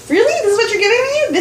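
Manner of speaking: a sniffy, let-down "really?"; mock disappointed guest. Mock ungrateful guest quote.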